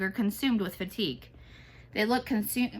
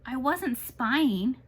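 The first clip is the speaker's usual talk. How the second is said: indignant; 4 semitones higher, much slower than usual. A narrator's reading. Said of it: "The hair of Apple Blossom's back stands up".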